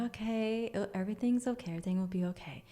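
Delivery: soothing, settling down in pitch; careful, calming re-enactment; gentle reassurance. Retold or imitated. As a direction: reassure a frightened child. Reassuring the child spirit.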